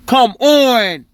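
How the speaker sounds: drawn-out, pleading protest; exasperated. Real, not acted. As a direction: stretch it out, fed up. Exasperated with the court.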